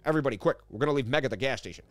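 a hint of a goofy cartoon dad; lightly voiced doofus dad bossing the family. Streamer cracks a joke for chat, lightly voiced goofy dad.

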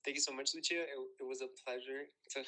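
formal guest retake. Pretend. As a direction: redo it smoother. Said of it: "let me redo that".

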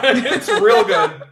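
real said rill, slowly; rill pronunciation. Shown as a demonstration. Joining the Midwestern joke, real said slowly as rill. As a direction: stretch out it's real good with real as rill. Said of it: "It's R I L L".

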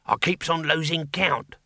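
high-pitched demon squeak; squeaky demon. A narrator's reading. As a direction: squeak like a tiny put-upon demon. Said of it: "squeaked the demon".

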